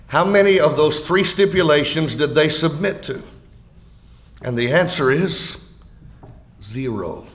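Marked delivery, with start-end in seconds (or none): 0.1-3.2 "submit" given the weight of the question; stress on SUBMIT. Shown as a demonstration. Preacher re-asking his question, with the emphasis on "submit". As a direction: lean on "submit" as the key word. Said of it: "place the emphasis on the word".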